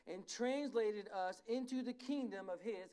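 slow, measured pulpit reading. Real, not acted. Preacher reads Colossians to the church, slow and emphatic. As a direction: read scripture slowly, with emphasis. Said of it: "read it slowly".

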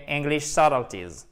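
English subtleties with SUT stressed, silent b; first-syllable stress in phrase. Shown as a demonstration. Teacher putting the stressed word back into its phrase, first-syllable stress. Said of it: "sur la première syllabe".

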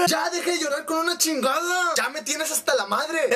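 hammed-up fed-up outburst; exasperated yell. Fan scolds weeping Teresa, exasperated. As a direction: cry out at the end of your patience.

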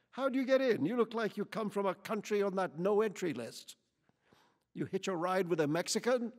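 loud, high, building hostile rant; angry tirade. A narrator's reading. Lady interrogates Quichotte about where he's from, furious. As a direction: pile accusations on him.

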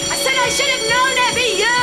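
shouting over a blaring alarm; over fire alarm. Acted. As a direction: raise the voice above the siren.

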